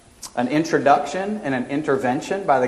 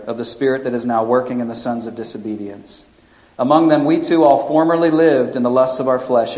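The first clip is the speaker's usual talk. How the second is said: reading scripture aloud from the pulpit. Acted. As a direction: read it out firm and steady.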